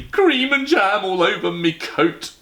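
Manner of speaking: slow, loud bitter complaint; a cabbie grumbling bitterly, slow. Acted. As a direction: drag it out, cross about the coat. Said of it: "he said bitterly".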